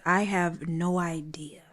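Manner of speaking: hushed, breathy "I have no idea", barely voiced; whispered denial. Bobby whispering his denial to Sanj. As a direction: whisper it so only Sanj hears.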